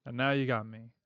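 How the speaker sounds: lightly voiced Australian-ish heavy; calm threat with a hint of northern twang; collector's accent. Collector offering Pele a final job, lightly accented calm menace. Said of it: "I like his accent".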